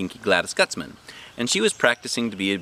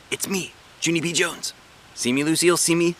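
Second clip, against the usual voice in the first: higher, bright-eyed eager hello; eager girl; 8 semitones higher than usual. A narrator's reading. Junie B showing her hats to Lucille, eager. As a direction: show off to your friend.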